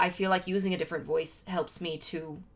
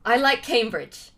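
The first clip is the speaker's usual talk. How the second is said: slow, louder posh British delivery, savouring the name; posh British accent; 4 semitones higher, 7 dB louder, slower than usual. Shown as a demonstration. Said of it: "well, posh to me".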